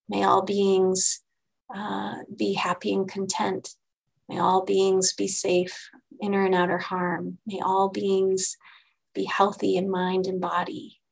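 slow, measured blessing; slow recited dedication. Shown as a demonstration. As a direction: recite each wish slowly and deliberately. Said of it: "my dedication of merit".

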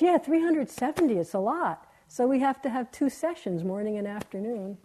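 bright, happy and easygoing; cheerful. Retold or imitated. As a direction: say it smiling, untroubled. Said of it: "Smiling, happy".

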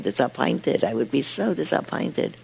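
put-on disappointed with a light Yiddish accent. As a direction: mispronounce disappointed like a Yiddish speaker. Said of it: "he mispronounces with a Yiddish accent".

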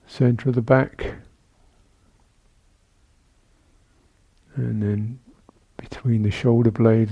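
calm, measured meditation guidance with long pauses; guided meditation. Real, not acted. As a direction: guide sitters gently through the body, leaving space between phrases. Leads a seated body-awareness meditation.

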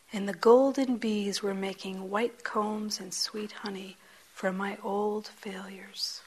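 poem recitation. Acted. Teacher reciting Machado's poem to the group, whispered. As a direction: breathe the lines gently.

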